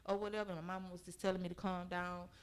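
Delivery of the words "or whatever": raised, heated voice at her man; half-yelled complaint, louder at the end; retold yelling. To the boyfriend who called her mama, a retold yell. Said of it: "I'm screaming and yelling".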